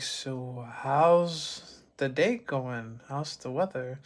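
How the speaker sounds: stalling into small talk; awkward small talk. Acted. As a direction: stretch it out, filling an awkward pause. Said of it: "a second or two later of the awkward look".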